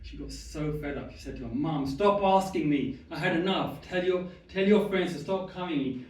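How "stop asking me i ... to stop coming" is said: fed up. Retold or imitated. Fed-up daughter tells mum off.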